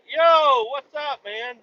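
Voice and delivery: burping and hiccuping. Real, not acted. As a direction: greet while burping and hiccuping. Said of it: "I wasn't doing a voice there".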